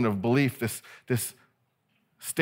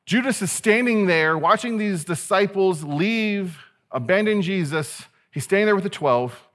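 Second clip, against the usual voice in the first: raised, loud film narrator; slow, projected voiceover opening, higher than usual; 6 semitones higher, 3 dB louder than usual. Shown as a demonstration. Preacher reading his Bible like a movie, dramatic narrator voice. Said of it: "read with a narrator voice".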